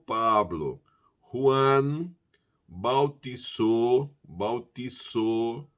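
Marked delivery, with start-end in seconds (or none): 2.7-5.7 bautizou with s, not z; slow bautizou with a hissed s; Spanish pronunciation. Shown as a demonstration. Teacher correcting students' bautizou. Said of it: "não é bautizou".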